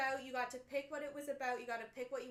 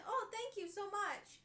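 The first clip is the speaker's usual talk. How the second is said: sweet grateful thanks; 7 semitones higher, slower than usual. Pretend. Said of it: "You're not asking".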